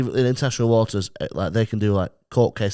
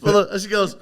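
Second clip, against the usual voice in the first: laughing; 9 semitones higher than usual. Real, not acted. Laughing through the story.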